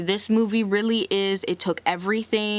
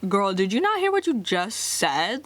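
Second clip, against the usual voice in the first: sassy disbelieving retort in a put-on voice; incredulous clapback. Vlogger answering the rude family, sassy disbelief. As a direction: call the family out, eyebrows raised. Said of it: "It's like".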